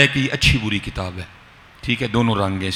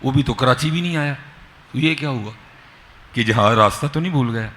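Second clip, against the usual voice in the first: mildly acted bewilderment, pitched higher; a touch of higher-pitched alarm in retelling; retold worry; 5 semitones higher than usual. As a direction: voice the father's puzzled worry, lightly. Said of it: "والد صاحب بڑے پریشان ہوئے".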